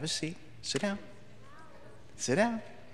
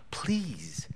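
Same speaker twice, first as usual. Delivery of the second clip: whisper; 5 semitones higher, 3 dB quieter than usual. Retold or imitated. Fond memory of gentle teacher.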